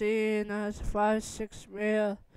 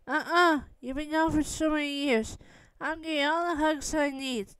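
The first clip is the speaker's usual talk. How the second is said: higher-pitched, mildly stubborn protest; playful insistence; 5 semitones higher, faster than usual. Acted. Clingy little sister demands hugs from her brother, playfully insistent. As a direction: refuse to let go, pitched up.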